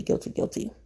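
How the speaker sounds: whispered, playfully ashamed "guilty"; mock guilty whisper. Confessing her cheat-day waffles to listeners, whispered mock guilt. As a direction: breathe it like a naughty confession.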